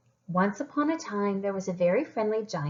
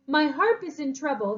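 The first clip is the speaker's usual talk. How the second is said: worried cry; 6 semitones higher, 3 dB louder than usual. Acted. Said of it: "he cried".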